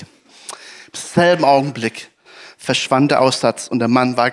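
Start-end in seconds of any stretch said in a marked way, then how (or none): 0.0-2.1 slowed repetition. Shown as a demonstration.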